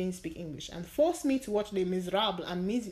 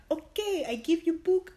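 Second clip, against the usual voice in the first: eager roommate imitation; 9 semitones higher, 3 dB louder than usual. Roommate handing over book, retold.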